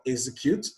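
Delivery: execute stressed as EX-e-cute; stress on first syllable. Shown as a demonstration. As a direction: lean on the EX of execute. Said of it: "on the first syllable".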